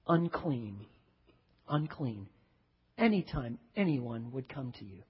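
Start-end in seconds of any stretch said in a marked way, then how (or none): 0.0-2.3 imitated leper's cry. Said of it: "required to start yelling out".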